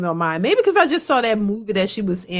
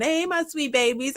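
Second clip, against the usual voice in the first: imitating Monique; 4 semitones higher, 4 dB quieter than usual. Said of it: "thinking of Monique saying".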